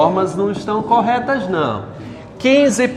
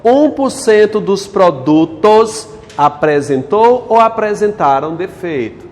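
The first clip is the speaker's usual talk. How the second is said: slow emphatic dictation; 4 semitones higher, 4 dB louder, slower than usual. Shown as a demonstration. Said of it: "preste atenção".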